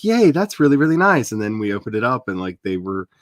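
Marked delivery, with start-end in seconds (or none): 0.0-1.3 mock delight. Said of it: "I was like".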